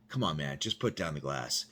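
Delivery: low, soft appeal; calm coaxing. Retold or imitated. Big cop pleading with Kevin, calm and soft. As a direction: reason with him gently, voice down. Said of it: "He's like".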